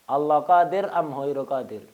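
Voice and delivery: put-on a loud, challenging question from the drunk; drunk man's challenge. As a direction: call the question out loud at the Shaykh. Drunk man challenges the Shaykh. (tantangan keras orang mabuk)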